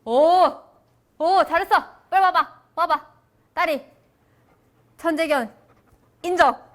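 high, loud praise for a dog; excited praise. Real, not acted. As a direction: cheer the dog on.

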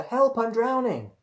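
high, loud drowning cry; crying for help. A narrator's reading. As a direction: call out in panic for rescue. Drowning rabbit calls for help.

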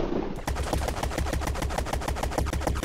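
soft, voiceless laughing; breathy chuckle. Real, not acted. Player watches the slow destruction, soft breathy laughter.

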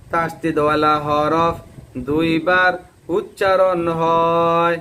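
slow, measured rule; teacher reciting the rule, learners listen; slow rule recitation. Shown as a demonstration. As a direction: recite it clearly for them to repeat. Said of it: "এবার আমি বলি, আপনারা শোনেন".

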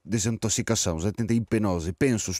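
put-on exasperated, heavily Spanish-accented Portuguese; put-on Spanish lilt over Portuguese. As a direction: complain in a comic Spanish accent. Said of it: "esta pronúncia de".

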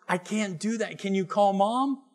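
a dad pulled out of a meeting, exasperated. Retold or imitated. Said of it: "I'm like".

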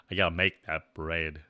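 actual voice. Shown as a demonstration. Streamer showing chat the real voice, low and natural. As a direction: drop well down into your real voice. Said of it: "My actual voice".

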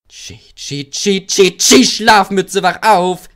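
high, loud engine-whistle shriek; whistled shout. A narrator's reading. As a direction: pipe it out like a whistle to startle a sleeper. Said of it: "pfiff er".

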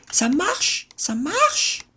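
high bright rising cheer; high delighted. Real, not acted. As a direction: cheer as it works. Success then failure.

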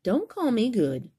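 high, loud little protest; mock indignant. Mouse scolding the Gruffalo, mock indignant. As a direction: scold him, tiny but fierce. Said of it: "said the mouse".

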